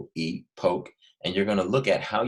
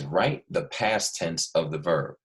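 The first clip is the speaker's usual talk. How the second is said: reading the instruction; slower than usual. Shown as a demonstration. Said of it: "It says".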